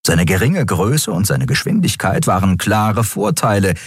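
plain reading voice

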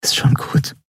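tender unvoiced whisper, soothing. A narrator's reading. Endriel hugs crying Keru and whispers comfort. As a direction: whisper it to calm a weeping friend. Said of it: "flüsterte sie".

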